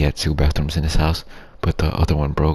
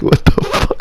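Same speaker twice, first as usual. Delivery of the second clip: shocked outburst; 8 dB louder than usual. Retold or imitated. Shocked at the party scene.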